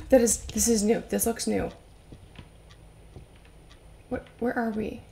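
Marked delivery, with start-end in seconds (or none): 4.1-5.0 hyperventilating. Real, not acted. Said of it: "I'm done panicking".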